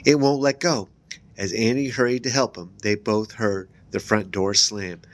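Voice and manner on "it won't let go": shrill cry. Acted. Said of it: "Evan cried shrilly".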